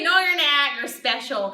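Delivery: loud mock-maternal contradiction; insistent denial. Mother correcting her son, loudly insistent. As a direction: talk right over him, then ease off.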